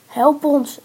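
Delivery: loud, high cry for help; calling for help. A narrator's reading. Two trapped friends to a passer-by, calling for help. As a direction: shout out to be rescued. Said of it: "riepen Men en Ens tegelijk".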